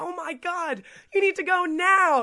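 very loud, high, drawn-out scream. Retelling what the coxswain screamed during the race: imitating someone screaming. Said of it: "our coxswain track screamed".

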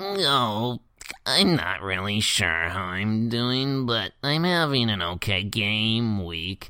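put-on voice with a drawn-out "no". You retell what Jake answered when you asked how he's doing in the league, in a Jake voice. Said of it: "I should do the Jake voice".

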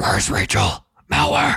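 voice dropped very low and rough. Asked to say a word in the deepest voice, the speaker copies another person's take; imitating Chad's Batman voice. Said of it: "my best impression of Chad doing an impression".

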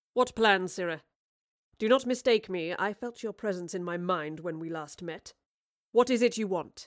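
ordinary delivery, nothing marked

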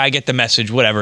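ordinary talk

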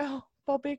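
acted, tearful, mournful weepy crying. Retelling a scene where Nadia cries over the balance beam: imitating Nadia crying. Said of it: "she's, like, crying".

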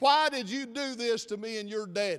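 accusatory, frustrated, scolding tone. Imagining a mother confronting her child in her mind's eye, mock-accusatory and frustrated. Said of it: "in a very accusatory".

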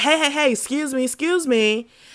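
loud yell, calling out. Retelling calling out to a girl at a trampoline place, retelling a yell. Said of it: "and I'm yelling. I'm like".

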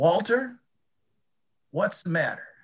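put-on speaking in an Alabama accent. Telling a story about Ida Mae speaking to Walter, in Ida Mae's Alabama accent. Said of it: "And with her Alabama accent".

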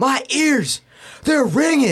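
very high, stretched-out, drawn-out shriek. Recounting what a man said about his ringing ears, imitating someone screaming. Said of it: "And he's like screaming".

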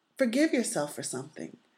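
calm, soothing, gentle instructor voice. Quoting the instructor as everyone lies on the mat, imitating a gentle, calm voice. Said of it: "she said it in such a gentle, calm voice".

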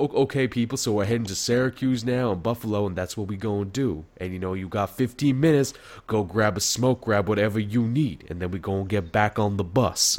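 easy, smooth intercom announcer delivery. Speaker recalls the announcements on the bus intercom: imitating Whitaker's smooth intercom voice. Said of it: "such, like, a smooth voice, like, over the intercom".

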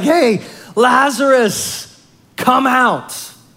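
put-on, very slow, loud, high, drawn-out carrying call. Retelling the Lazarus story as Jesus calls out at the tomb, retelling a loud call. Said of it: "with a loud voice".

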